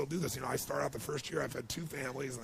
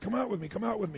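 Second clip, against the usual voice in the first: put-on higher and louder call to the kids; 7 semitones higher, 5 dB louder, faster than usual. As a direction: call the boys to come out. Calling the boys outside.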